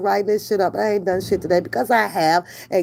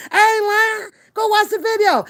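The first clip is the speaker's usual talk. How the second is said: excited; 11 semitones higher than usual. Real, not acted. Excited insistence to chat.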